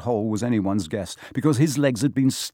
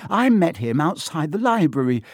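high, shaken voice; shaky; 6 semitones higher than usual. A narrator's reading. Shaken boy tells friends of the attack, shakily. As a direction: pitch it up as if still trembling. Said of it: "said Neville shakily".

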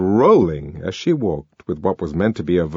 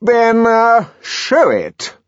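raised, loud, faltering command; majestic but taken aback; 6 dB louder, much slower than usual. A narrator's reading. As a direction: recover your dignity mid-line. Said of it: "still majestically".

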